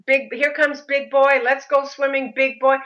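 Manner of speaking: high-pitched imitation of friendly greeters; admiring fans. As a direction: call him over like an adoring crowd. Holidaymakers cheering on the boy.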